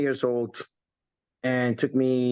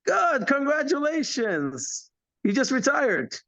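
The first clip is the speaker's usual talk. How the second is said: mock calm upline; 12 semitones higher, slower than usual. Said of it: "and says".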